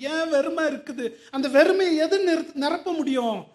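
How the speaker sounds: a high, loud cry of the question; preaching shout. Real, not acted. Preacher crying out to the congregation, high and loud. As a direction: lift it up and call it out.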